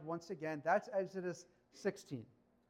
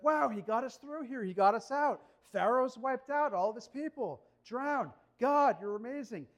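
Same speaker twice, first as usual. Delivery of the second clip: imitating excited praise; 4 semitones higher, 4 dB louder than usual. Israelites singing praise after rescue.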